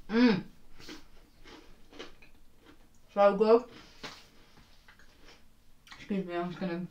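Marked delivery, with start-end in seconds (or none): 0.1-3.6 savoring. Real, not acted. Tasting fresh cookie.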